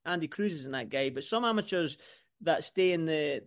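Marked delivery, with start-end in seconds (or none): none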